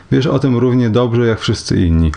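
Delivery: ordinary delivery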